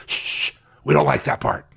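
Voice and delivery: mock whisper of a secretive critic; whispered mock aside. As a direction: hush it like a secret. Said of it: "And they almost whisper".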